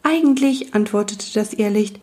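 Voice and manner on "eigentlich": will-o'-wisp voice. Acted. Wisp answers.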